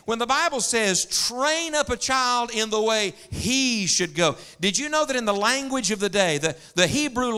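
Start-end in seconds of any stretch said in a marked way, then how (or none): 1.0-4.4 slow, raised verse, HE drawn out; stress on HE. Retold or imitated. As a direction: land hard on "he" in "the way he should go". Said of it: "place an emphasis on a different word".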